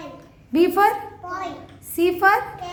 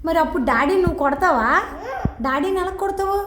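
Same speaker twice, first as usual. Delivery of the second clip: laughing. Real, not acted. Laughing while asking child.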